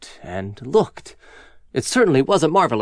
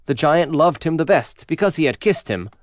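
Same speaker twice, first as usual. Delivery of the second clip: ordinary delivery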